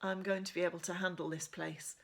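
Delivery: steady first-person reading of a novel; measured storybook narration; story narration. A narrator's reading. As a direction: read it like a teen heroine telling her story. Reads novel chapter aloud.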